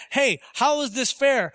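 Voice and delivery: mildly indignant demand for fairness; indignant objection. Acted. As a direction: act out a protesting objector. Acts out the objector to God.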